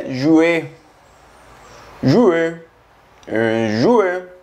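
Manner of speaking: juillet said zhwee-ay; French pronunciation. Shown as a demonstration. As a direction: juillet à la française. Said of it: "se pronuncia juillet".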